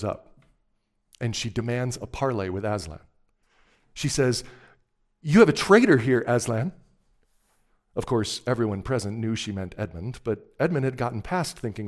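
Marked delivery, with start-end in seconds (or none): 5.2-6.7 louder, higher witch's accusation; accusing witch. A narrator's reading. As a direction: throw the charge out as the witch. Voicing the witch's accusation in story.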